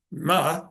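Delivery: "ma" in a sharp falling fourth tone, meaning scold; Mandarin tone demo. Shown as a demonstration. Lecturer demonstrating the Mandarin tone for scold. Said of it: "it can mean one of five things".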